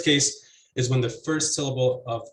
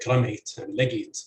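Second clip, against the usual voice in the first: "ramait" and "legit" stressed on "ra" and "le"; front-stressed "ramait", "legit"; first-syllable stress. Shown as a demonstration. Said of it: "where stress is placed on the, uh, first".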